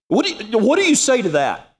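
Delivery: baffled exclamation. Real, not acted. Asks audience in comic bafflement.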